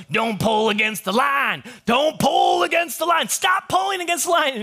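high, strained shouting; bellowed warning, acted out; retold captain's yell. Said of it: "the captain is yelling at him".

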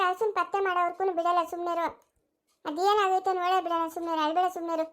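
calm her down gently, quiet; soft reassuring hush to a crying grandmother; soothing. Acted.

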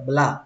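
"black" ending on the vowel, k unreleased; final k dropped. Shown as a demonstration. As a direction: leave the k off "black". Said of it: "không cần chữ cờ cuối cũng được".

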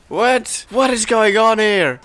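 high, loud disbelieving cry; baffled outcry. Real, not acted. Gamer baffled by an invisible sentry, high baffled outcry. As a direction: cry out in total confusion.

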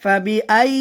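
ফাবিআই with the "ai" sounded clearly; clear articulation. Shown as a demonstration. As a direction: enunciate ফাবিআই distinctly as a recitation model. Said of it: "আওয়াজ স্পষ্ট".

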